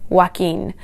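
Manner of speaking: Joaquin said slowly as wah-KEEN; anglicised Joaquin with a plain W; English pronunciation. Shown as a demonstration. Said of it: "speakers of English generally tend to pronounce it as".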